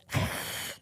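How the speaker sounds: imitated cat hiss. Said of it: "it did the hiss".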